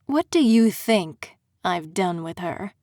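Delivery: a smug aristocrat savoring his mockery; Aldrin, smug fae prince. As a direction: purr it out like a gloating prince. Aldrin's villain voice.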